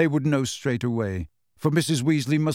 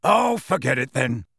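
muttered. Acted. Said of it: "muttered Sirius".

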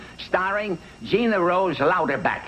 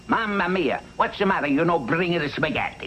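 put-on hammy Italian accent; broad comic Italian accent; 2 semitones higher than usual. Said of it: "You ever hear my Italian accent?".

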